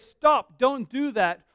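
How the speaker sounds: a firm halt to a friend; sharp warning. Retold or imitated. Respected person warns you.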